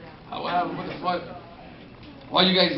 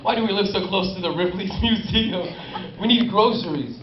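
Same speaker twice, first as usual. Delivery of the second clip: laughing mock local. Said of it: "you're like".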